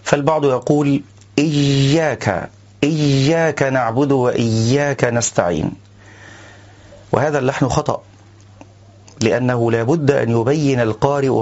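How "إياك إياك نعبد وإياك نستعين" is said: "إياك" with the ya pushed toward a j sound; faulty "إياك" with jeem colouring; ya tinged with jeem. Shown as a demonstration. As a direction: let a hint of jeem creep into the ya of "إياك". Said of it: "مشوبة بالجيم".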